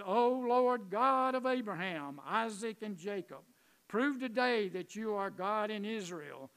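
loud, ringing plea to God, settling at the end; prayer. Retold or imitated. Elijah at the rebuilt altar before the people, praying. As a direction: call on God earnestly, strong on each opening phrase. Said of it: "he prayed to God".

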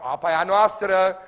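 loud, slow, possessive claim; mock claim. Philistines claiming the well from Isaac, slow and loud. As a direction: lay claim to the water, slowly and loudly.

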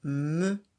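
"Me." said loud and distinct; teacher confirming with a loud "Me."; confirming syllable. Shown as a demonstration. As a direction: confirm "Me." clearly. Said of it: "C'est celle-ci".

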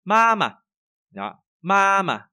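high level ma, then brief mà; long ma, light mà. Shown as a demonstration. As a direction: hold ma, let mà drop away. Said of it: "nhẹ nhàng lướt qua". (ma kéo dài, mà nhẹ)

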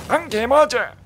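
high, loud squeaky cutesy squeal; cute aegyo voice. Pretend. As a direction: play it cute for the stream. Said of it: "방송을 위해서 한 번 더 요런 애교까지".

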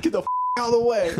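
fast, high imitation of mom; rushed mock-frantic mother; mom mode. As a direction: mimic a mother clearing the crowd. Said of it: "she went mom mode".

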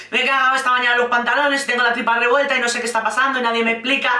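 fast, breathless mock retelling; rushed mocking repeat. Vlogger mocks the bride's confession, fast. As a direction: rattle the confession off fast, half laughing. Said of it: "Joder, qué imagen más tierna".

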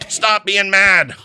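slow firm command. Real, not acted. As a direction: lay it down slowly like an order.

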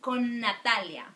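Con Natalia with one long held n. Shown as a demonstration. Teacher to students, showing the long linked n. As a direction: hold the n between Con and Natalia. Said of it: "sounds like a long consonant".

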